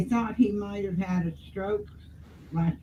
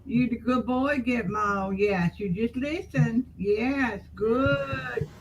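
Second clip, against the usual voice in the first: dog talk; 4 semitones higher, 5 dB louder than usual. Real, not acted. Soothing the dog.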